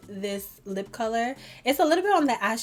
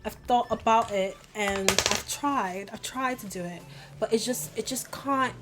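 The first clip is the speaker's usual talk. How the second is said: amateur British accent, not quite landing; attempted British accent. Shown as a demonstration. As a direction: have a go at a shaky British accent. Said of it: "a really nice British accent, but I can't".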